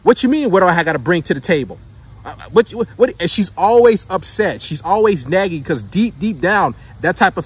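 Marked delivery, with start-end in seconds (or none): 0.0-3.1 imitating an indignant woman, pitched up at first; mock attitude. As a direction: toss it back like a put-upon girlfriend. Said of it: "usually her attitude is like".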